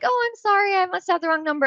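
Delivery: chirpy mock apology before hanging up; fake polite brush-off. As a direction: sweeten it up to get off the line fast.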